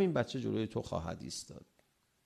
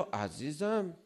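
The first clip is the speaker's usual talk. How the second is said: soothing; 4 semitones higher, 3 dB quieter, slower than usual. Acted. Acted soothing reply to scolding.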